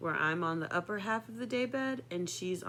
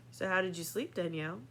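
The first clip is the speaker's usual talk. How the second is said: sarcastic; 5 dB quieter, faster than usual. Retold or imitated. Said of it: "kinda sarcastically over his coffee".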